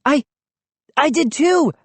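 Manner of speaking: high, eager outburst; exclaiming. A narrator's reading. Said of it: "I exclaimed".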